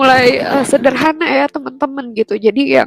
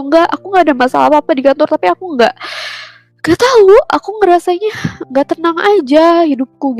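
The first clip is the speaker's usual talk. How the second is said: mildly plaintive, higher-pitched retold reply; lightly acted grumble, lifting higher midway; retold complaining; 5 semitones higher, faster than usual. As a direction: re-enact confiding a complaint to mom, pitched up. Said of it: "tumben-tumbennya kan saya ngeluh gitu".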